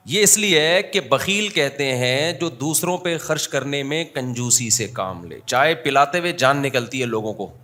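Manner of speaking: ordinary talk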